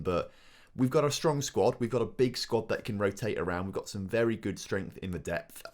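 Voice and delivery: put-on football manager in Yorkshire accent; broad Yorkshire, post-match interview. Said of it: "you guys keep saying that I can't do a Yorkshire accent".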